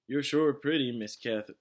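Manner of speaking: leering sheriff. A narrator's reading. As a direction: say it with a leer. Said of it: "said the sheriff".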